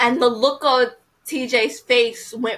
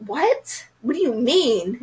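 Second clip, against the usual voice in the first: mock disbelief; 3 semitones higher than usual. Rejected girl asking the guy why, mock disbelief. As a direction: play the stunned girl turned down, lightly.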